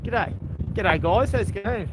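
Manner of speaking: put-on Australian greeting; Australian accent. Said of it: "An Australian accent".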